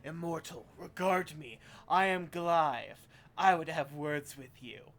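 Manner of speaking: creaking like shifting boulders. Acted. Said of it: "calls out to you in a creaking voice".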